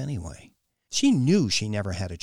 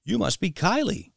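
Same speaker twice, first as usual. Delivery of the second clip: friendly; 10 semitones higher, 4 dB louder than usual. A narrator's reading. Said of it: "His voice was so normal, friendly, and patient".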